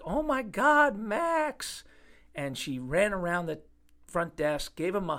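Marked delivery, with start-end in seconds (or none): 0.0-1.8 high, loud shriek of shock; excited shriek. Retold or imitated. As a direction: squeal his name like you've seen a ghost. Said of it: "she screamed out like she was seeing a ghost".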